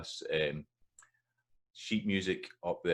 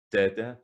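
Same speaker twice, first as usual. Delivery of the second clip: da-da, first da punched higher and louder; first beat stressed; 4 semitones higher, 6 dB louder than usual. Shown as a demonstration. Teacher beating out the word's rhythm, da-da stressed at the start. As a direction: hit the first da, let the second drop. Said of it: "that's the rhythm of that".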